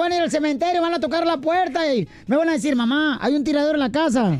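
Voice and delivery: mom's guilt trip. Retold or imitated. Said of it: "Y luego dice mi mamá".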